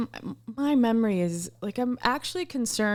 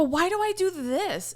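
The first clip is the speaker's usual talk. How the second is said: bad Irish accent; 7 semitones higher than usual. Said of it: "And I went like this".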